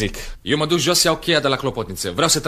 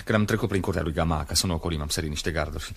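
reassuring; 4 semitones lower, 5 dB quieter than usual. Acted. Își liniștește soția speriată de sânge.

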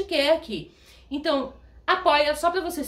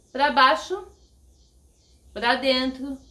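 shaky voice from a real tremor; trembling; slower than usual. Real, not acted. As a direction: speak through a steady tremble. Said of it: "você tá vendo que eu estou tremendo".

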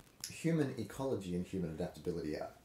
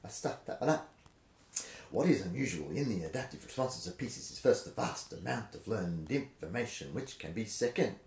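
rhythmic reading. Shown as a demonstration. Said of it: "I'm just losing the rhythm".

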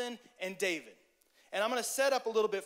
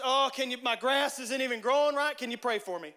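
whiny drama; 4 semitones higher, 5 dB louder than usual. Retold or imitated. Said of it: "It's just".

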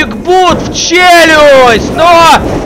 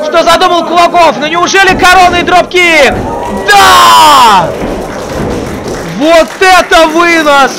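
wrestling commentator. Real, not acted. Live wrestling match commentary peak.

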